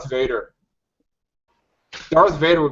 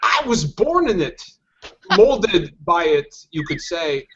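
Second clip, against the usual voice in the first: Bane impression; slower than usual. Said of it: "he says".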